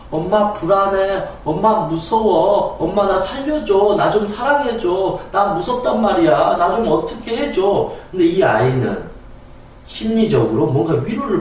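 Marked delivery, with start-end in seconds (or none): 0.1-7.9 put-on higher, pleading scared child; child begging a harsh mother for comfort; frightened child. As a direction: beg mom for love and safety. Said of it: "아이의 마음이 어떨까요".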